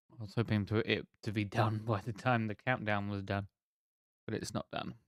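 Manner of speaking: talking around a sucked sweet; words slurred by a sweet in the mouth; mouth full. Real, not acted. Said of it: "Sorry, I got a sweet in my mouth".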